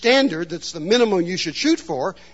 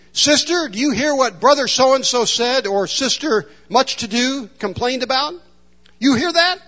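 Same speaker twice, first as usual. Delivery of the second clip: grandmother's lesson; 5 semitones higher than usual. Retold or imitated. Grandmother teaching her granddaughter.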